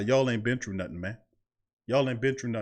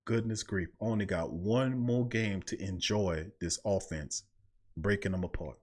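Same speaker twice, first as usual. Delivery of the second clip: soft, slow, lower, wistful; wistful muttering to self; 4 semitones lower, 8 dB quieter than usual. Retold or imitated. Host recalls talking to himself near season's end, soft wistful. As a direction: sigh it to yourself as the season ends. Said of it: "I said to myself".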